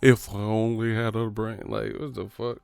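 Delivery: mock man-fan voice with huffy breaths; man fans impression. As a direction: do a huffing, whiny heckler. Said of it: "that's how these man fans be sounding".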